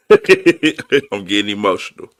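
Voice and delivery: embarrassed laugh through the words. Real, not acted. Streamer laughing off his feelings to chat. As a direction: laugh at his own emotion.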